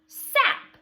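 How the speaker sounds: put-on a cheerful "Sap" for the kids; excited reveal. Shown as a demonstration. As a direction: pop the answer out brightly. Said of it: "S A P".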